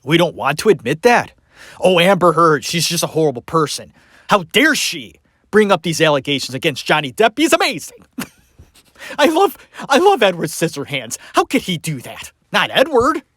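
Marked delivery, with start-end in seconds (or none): 1.8-13.2 mock gushing fan. Mocking Depp fans' gushing.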